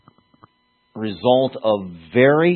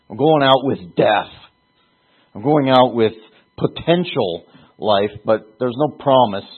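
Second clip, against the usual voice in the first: louder, higher sower crying out his uncertainty; preacher voicing the sower who cannot control the rain; 3 semitones higher, 4 dB louder than usual. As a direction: proclaim the sower's doubts aloud, earnest.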